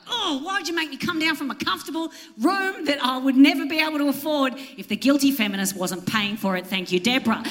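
high, sarcastic complaint to the valet; mock outrage, dripping sarcasm; sarcastic retort. Comic telling off the hotel valet, sarcastic.

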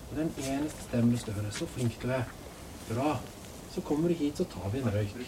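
low, soft reassurance; hushed, low, soothing encouragement; calm coaxing. Real, not acted. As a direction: talk her down gently and quietly. Calming an armed, distressed woman.

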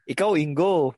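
imitating a friend in a stilted Chinese accent; mock Chinese accent. Passing on a friend's dating advice, mock Chinese accent. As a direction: put on a hammy Chinese accent, low-pitched. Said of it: "Bakit yun yung accent?".

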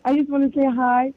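nervous, shaky voice on the phone. Real, not acted. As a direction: voice trembling with nerves. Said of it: "my voice is shaky".

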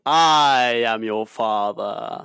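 slow, drawn-out reveal; lightly voiced film villain. Podcaster corrects the famous Vader quote, slow and weighty. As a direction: stretch out a grave confession.

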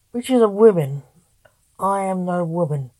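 a brisk, irritated retort; irate snap. Acted. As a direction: snap it back, offended. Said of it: "snapped an irate Blake".

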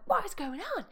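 high, loud mock outrage; alarmed disbelief. Driver cut off by zooming cars, retold indignant shock. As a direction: demand it in high-pitched shock.

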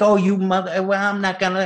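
mock heated argument, high-pitched. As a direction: act out a flaring row. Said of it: "and gets heated".

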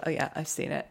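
a hint of a bragging child; boastful kid. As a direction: mimic a kid pretending he's seen it. Kids boasting at school.

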